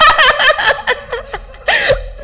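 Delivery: a high laugh breaking into a sob; teary high laugh. Real, not acted. Fighting tears in the studio, high teary laugh. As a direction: laugh to stop the crying.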